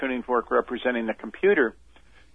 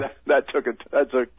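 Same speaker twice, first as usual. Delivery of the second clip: chuckling through the words; laughing. Real, not acted. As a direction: let a real laugh spill into the line. Laughs at his own remark.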